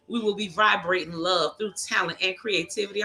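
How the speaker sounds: slightly slurred words; tipsy, words running together; slurring. Real, not acted. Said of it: "I'm slurring".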